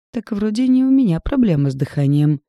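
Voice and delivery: high, loud indignant retort. A narrator's reading. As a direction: throw it back at him, offended. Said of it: "возмутилась Мария".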